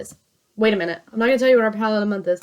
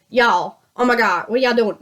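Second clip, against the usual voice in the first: mock Virginia country drawl; exaggerated Southern drawl. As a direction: ham up a Southern twang, y'all. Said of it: "my drawl comes out hard".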